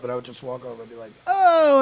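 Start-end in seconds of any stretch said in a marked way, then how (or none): 1.3-1.8 high, loud drawn-out oh; big hammed-up shout to a friend; mock calling out. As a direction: holler a greeting across the room. Calls out to female friends.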